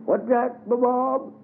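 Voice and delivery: high put-on old man's question; an old man half-hearing; Daddy Jake asking Bob. A narrator's reading. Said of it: "asked Uncle Daddy Jake".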